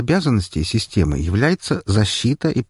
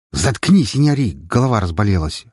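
barked. Acted. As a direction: bark it at her. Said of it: "рявкнул я на медсестру". (рявкнуть на медсестру)

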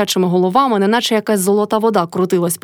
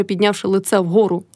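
ordinary delivery

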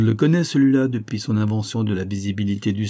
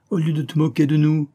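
vexed; 6 semitones higher, 3 dB louder than usual. Acted. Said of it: "vexé à son tour".

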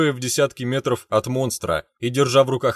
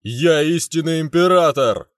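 higher, louder furious shout; raging yell; 5 semitones higher, 4 dB louder than usual. Acted. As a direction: bellow it like a raging prince. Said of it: "от его ора".

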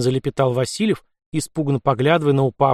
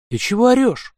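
higher, sharp angry retort; flaring up in anger; angry snap; 9 semitones higher, 3 dB louder than usual. Acted. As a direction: bite back at the shouting anarchist. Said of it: "вызверился Васильев".

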